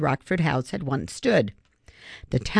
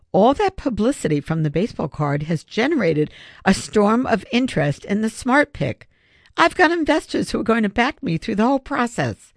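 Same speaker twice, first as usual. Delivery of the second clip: raised pitch, building with excitement; excited good news; 6 semitones higher than usual. Acted. Father telling his son about new investors, excited. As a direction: announce it eagerly, lifting higher as it goes.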